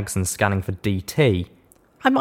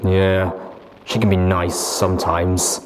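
low and flat; slower than usual. Acted. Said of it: "muttered in a low, flat voice".

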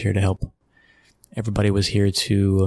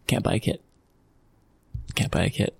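hushed disbelief; 5 dB quieter than usual. Real, not acted. Recalling fans unable to buy a kit, hushed and incredulous. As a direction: whisper it twice in quiet disbelief. Punchline about the closed shop.

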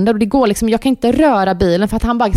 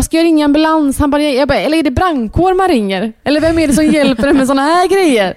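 high-pitched, flustered run of questions; retold frantic panic; 5 semitones higher than usual. Mum asking partner whom to call, comically frantic. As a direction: re-enact helpless panic on the phone.

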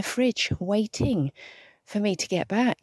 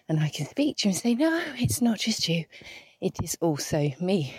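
breathless. Real, not acted. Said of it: "if I sound a little breathless".

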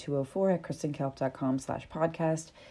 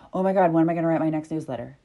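mock panicked rush; 4 dB louder, much faster than usual. Acting out panicked worry.

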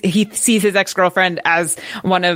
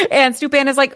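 laughing; 6 semitones higher than usual. Real, not acted.

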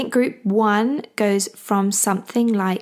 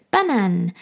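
French word in an English speaker's French accent. Shown as a demonstration. Mum teaching baby Papa's word, French accent. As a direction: attempt the French pronunciation of "banan". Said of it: "sorry about my French accent".

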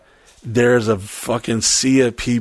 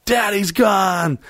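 high, drawn-out party call; mock gleeful cry; 7 semitones higher, much slower than usual. Crew getting wild without the boss, mock gleeful high call. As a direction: sing out that nobody's in charge.

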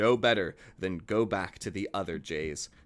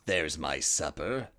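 lightly voiced wolf; 8 semitones lower, 3 dB quieter, slower than usual. A narrator's reading. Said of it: "thought he".

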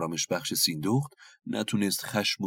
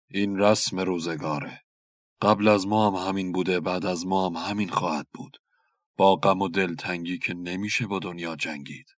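a lightly voiced resigned husband; calm, accepting fate; mild voice of a weary king. Narrator voices Mehrab calmly.

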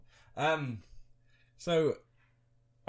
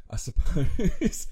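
grudging concession; 6 semitones higher, 8 dB louder, much slower than usual. Acted. Grudging concession, louder retake.

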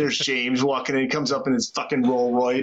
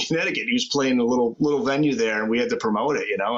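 ordinary delivery

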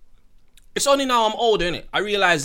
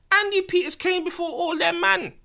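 excited; 12 semitones higher than usual. Real, not acted. Hyping up Andy Peters.

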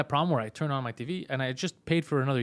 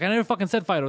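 raised, louder mock yell at the clerk; angry yell; 5 semitones higher, 5 dB louder, faster than usual. Neighbor yelling at phone shop guy, angry. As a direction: yell it like you were cheated.

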